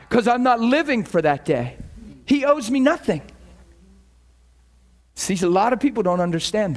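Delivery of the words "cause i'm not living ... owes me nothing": emphatic. Real, not acted. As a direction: preach 'living' with force. Emphatic sermon point, repeated.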